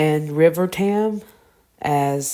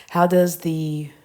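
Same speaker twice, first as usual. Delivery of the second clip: whispering; slower than usual. Real, not acted. Reading the question half aloud.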